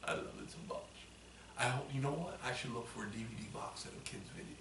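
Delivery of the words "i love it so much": hushed, gushing whisper. Real, not acted. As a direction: whisper it like a secret. Gushing whisper about show.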